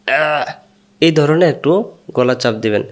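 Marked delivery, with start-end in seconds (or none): 0.1-0.1 fishbone choke sound. Shown as a demonstration. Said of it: "মাছের কাঁটা যখন গলা লাগলে".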